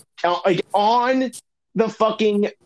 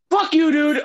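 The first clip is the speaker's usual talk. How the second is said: mock outrage; 9 semitones higher than usual. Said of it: "And I'm like".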